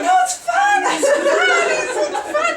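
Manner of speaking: high, loud, frantic "it's fun"; high-pitched laughing reassurance; pleading reassurance. Retold or imitated. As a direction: insist desperately that it's fun. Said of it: "I was like".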